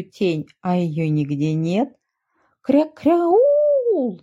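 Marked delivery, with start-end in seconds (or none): 2.6-4.2 high quacking cry of alarm, much higher; a quacking little yell, pitched way up; duckling cries out. A narrator's reading. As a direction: shriek it like a panicked duckling. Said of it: "закричал он".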